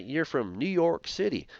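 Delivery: badly faked Texan accent; terrible Texan accent. Lecturer playing a Texan spotting a New Yorker, in mock Texan accent. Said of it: "forgive my terrible, uh, Texan accent".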